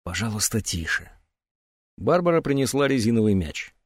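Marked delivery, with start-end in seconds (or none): 0.0-1.1 softer, lower, pleading hush; soft plea for quiet; hushed request. Acted. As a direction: ask quietly for silence. Asks for quiet.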